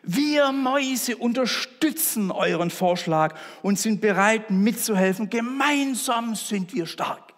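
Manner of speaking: small, high mouse voice, slowing at the end; a young mouse volunteering bravely to the lion. Acted. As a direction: pipe up like an eager little mouse. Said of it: "Eine junge Maus erhob sich und ergriff das Wort".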